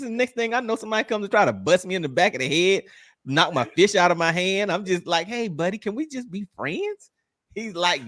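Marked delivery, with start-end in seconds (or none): 5.3-7.1 mock pleading. Mock-pleading retold appeal to attacker.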